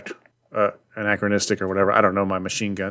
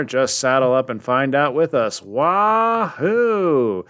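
lightly hammed comic-book announcer; hype announcer read; 2 semitones higher than usual. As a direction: read the splash page like a showy promo, ending in a whoop. Reads the comic's splash-page hype.

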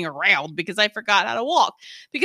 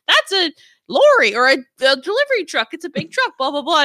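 put-on talking to a baby; 6 semitones higher, 4 dB louder than usual. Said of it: "talking to the baby".

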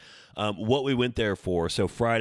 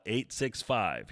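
each digit spelled out slowly; slow, clear number read; slower than usual. Shown as a demonstration. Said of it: "Here's the number".

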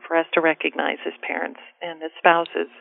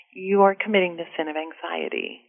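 gentle priest; 6 dB quieter than usual. Retold or imitated. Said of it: "he just gently said".

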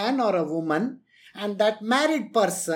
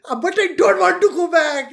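higher, pleading mock whine; John Oliver whine; 7 semitones higher, 6 dB louder than usual. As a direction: play the protesting victim, comically. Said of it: "this is how John Oliver does it".

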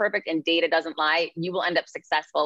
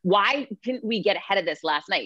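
ordinary talk, nothing marked

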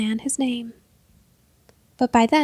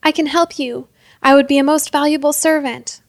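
desperate pleading; 3 semitones higher, 5 dB louder than usual. Acted. Thief begging for his life.

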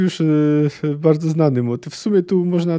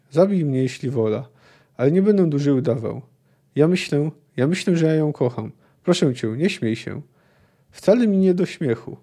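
measured audiobook narration of a prisoner's confession; story reading. A narrator's reading. Podcaster reads the book excerpt to listeners, calm narration. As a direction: read the passage like an audiobook. Reading dialogue passage aloud.

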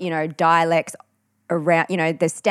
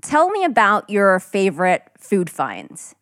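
slow, careful General American; American accent; slower than usual. Shown as a demonstration. Host asking co-host about food, American accent. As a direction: put on an American interviewer's accent. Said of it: "we'd talk in an American accent".

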